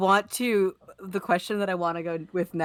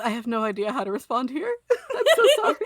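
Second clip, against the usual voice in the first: flustered apology; 4 semitones higher, faster than usual. Acted. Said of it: "And, and then he just goes".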